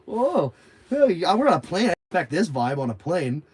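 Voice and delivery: high, loud exclamation settling down; mock protest. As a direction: act out calling for calm among passengers. Acted protest at quarrelling passengers.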